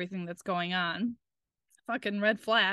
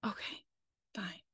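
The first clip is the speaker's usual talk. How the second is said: hushed, defeated mock reply; resigned giving-in; 11 dB quieter than usual. Patient told to wait for meds, quiet resignation. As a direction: let it drop to a near whisper, giving up.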